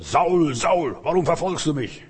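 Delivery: voice of Jesus. Acted. Voice of Jesus calling Saul.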